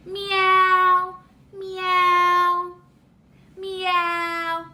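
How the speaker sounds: drawn-out, even kitty meow; kitty cat meow. Pretend. Teacher showing a toddler what a cat says, drawn-out meows. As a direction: stretch out a gentle imitation meow. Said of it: "What does a kitty cat say?".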